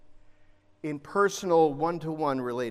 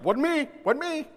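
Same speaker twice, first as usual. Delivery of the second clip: mock denial; 9 semitones higher than usual. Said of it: "They're like".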